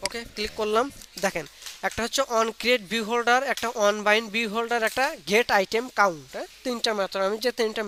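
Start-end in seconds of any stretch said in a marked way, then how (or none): 1.9-6.2 slow, deliberate method names; slow dictation. Shown as a demonstration. Teacher dictating method names slowly to class. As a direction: spell them out slowly for students.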